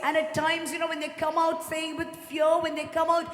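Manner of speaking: emphatic preacher's appeal; earnest, rousing pulpit delivery; fervent preaching. Real, not acted. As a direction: drive the point home to the congregation. Preaches with fervour.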